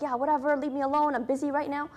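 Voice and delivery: mock-dismissive brush-off. Imagined wife to her scared husband, dismissive. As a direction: act out waving someone away as too busy. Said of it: "She could have been dismissive".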